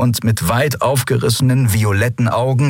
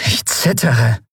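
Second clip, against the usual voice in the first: mocking fear; 3 semitones higher, slower than usual. A narrator's reading. Captain taunts the emperor over his machine, sarcastic. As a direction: pretend to be scared, taunting.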